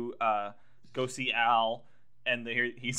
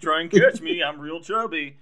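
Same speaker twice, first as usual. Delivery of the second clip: mock taunt; 4 semitones higher, 10 dB louder than usual. Taunting Walken as Al.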